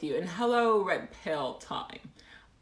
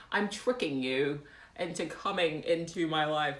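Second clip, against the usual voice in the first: ordinary talk, nothing marked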